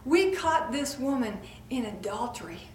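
loud, demanding accusers dragging her to Jesus; self-righteous crowd calling for stoning; accusing mob. Acted. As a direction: push Jesus for a verdict, loud. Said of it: "they say".

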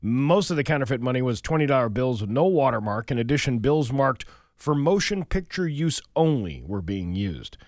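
radio newscaster voice; news read. Acted. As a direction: read the headlines steadily. Reads the local news.

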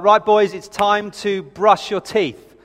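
lightly acted parent calling the boys, drawn out; a hint of a parent's routine call; slow, measured reminder, lightly imitated; lightly voiced parent. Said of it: "I hear these things kind of floating down the stairs".

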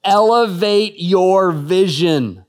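put-on very slow, loud Australian accent repeat. Preacher repeating the Australian preacher's line in Australian accent. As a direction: boom it again the Australian way. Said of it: "my best crack at an Australian accent".

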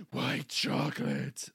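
slow, loud, breath-filled exclamation; hammed-up awestruck discovery; mock amazement. Listener pretends to taste the tree, mock amazement.

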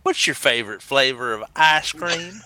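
light Southern US twang; Southern American accent. Acted. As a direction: ask it with an Alabama accent. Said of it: "Southern American accent".

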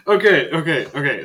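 breathless laughing okays; gasping with laughter. Real, not acted. GM still laughing.

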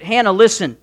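lightly acted earnest husband, stretching the key words; husband reassuring. Husband assuring his childless wife, emphatic reassurance. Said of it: "he's referring to the fact that".

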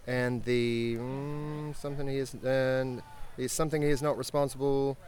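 period British officer reading a letter aloud; British accent, formal letter read to the guests. Acted. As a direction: read it out like a Royal Navy captain in a British accent. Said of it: "Read it in your best British accent".

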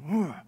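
mock grunt of exertion; effort grunt. Preacher acts out getting serious about work, effort grunt.

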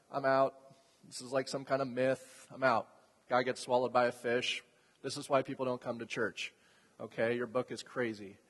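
low, muted imitation of a doubter; dismissive skeptic. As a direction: lightly voice someone who has checked out. Voicing skeptical modern listeners.

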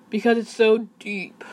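sleepy morning voice. Shown as a demonstration. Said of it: "that's as best as I can do".

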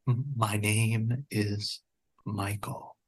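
retold gunman quietly giving his name; hushed admission. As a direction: let the name out slowly and softly. Gunman finally gives name.

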